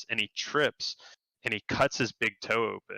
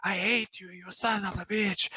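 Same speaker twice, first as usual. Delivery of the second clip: mock furious scream; 10 semitones higher than usual. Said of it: "screaming at it".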